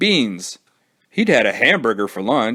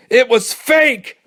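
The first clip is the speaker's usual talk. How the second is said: panting; 4 dB louder, slower than usual. Acted. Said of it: "panted Billy".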